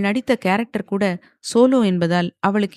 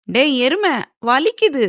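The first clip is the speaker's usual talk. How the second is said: raised, higher complaint of pain; pained protest; 7 semitones higher, 4 dB louder than usual. A narrator's reading. Yaazhi to Saravanan who rapped her head, pained protest. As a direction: protest sharply at being knocked on the head. Girl yelps after a knock.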